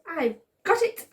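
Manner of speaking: high, bright burst of an idea; sudden idea. Acted. Ted leaping up with an idea for Simon, eager. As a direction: pop out the idea. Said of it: "shouts Ted".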